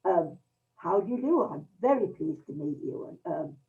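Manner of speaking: quiet, faltering polite introductions; stammering introduction. Retold or imitated. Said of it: "this slight stammer, this slight hesitancy".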